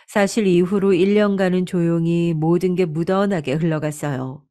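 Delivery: ordinary delivery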